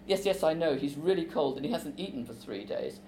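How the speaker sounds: expressive reading of a novel scene with voiced characters; story reading. A narrator's reading. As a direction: read it aloud to a class like a play. Author reads scene aloud.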